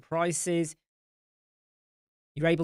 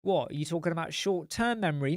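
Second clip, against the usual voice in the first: wife confused; 2 semitones higher, faster than usual. Retold or imitated. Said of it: "she'll be like".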